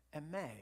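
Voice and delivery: "eme" stressed on its final syllable; stress on last syllable. Shown as a demonstration. Preacher repeating the Greek word after spelling it, "eme" stressed on last syllable. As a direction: let the second syllable of "eme" carry the weight. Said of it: "emphasis on the, the last syllable".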